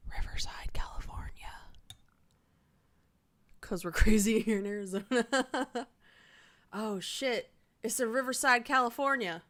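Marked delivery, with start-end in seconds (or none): 0.1-1.3 whispering. Real, not acted. Reading to herself quietly. 6.7-9.4 surprised. Real, not acted. Realizes the birthplace, exclaims.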